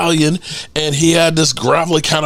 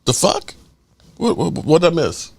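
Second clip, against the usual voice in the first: shocked disbelief; 2 semitones higher than usual. Retold or imitated. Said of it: "I'm like".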